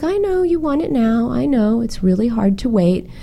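starts high, easing down gently; लाड़ से समझाती माँ की नकल; retold soothing mother. Retold mother soothing her son.

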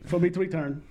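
Brooklyn accent. Shown as a demonstration. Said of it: "I do it with my dad's Brooklyn accent".

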